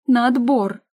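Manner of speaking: high, loud stamping demand; spoiled sister shouting her demand; capricious shout. Acted. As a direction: insist like a spoiled child. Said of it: "Сестрица капризно топнула ногой".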